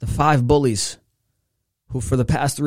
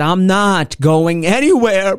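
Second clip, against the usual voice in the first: louder, slow, firm insistence; emphatic refusal; 7 semitones higher, 5 dB louder, slower than usual. Retold or imitated. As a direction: dig in and insist. Emphatic repeated refusal to parents.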